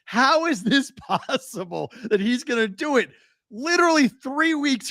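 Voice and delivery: high pitched laughing disbelief; amazed disbelief. Real, not acted. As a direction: marvel at it, almost laughing. Marveling at the record.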